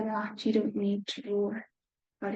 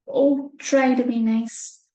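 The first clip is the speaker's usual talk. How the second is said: whimpering plea; 7 dB louder, slower than usual. Acted. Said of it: "he whimpered".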